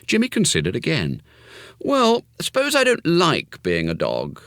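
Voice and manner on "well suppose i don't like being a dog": put-on cautious boy. A narrator's reading. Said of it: "he asked cautiously".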